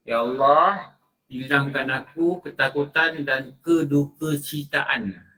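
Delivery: slow earnest prayer voice; recited prayer. Shown as a demonstration. Preacher teaches the prayer said after wiping the face, slow and earnest. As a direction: pray it slowly and sincerely.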